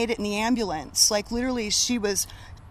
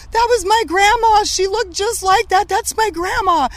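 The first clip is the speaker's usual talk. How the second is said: tearful recognition; 9 semitones higher, 6 dB louder than usual. Retold or imitated. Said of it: "she starts crying".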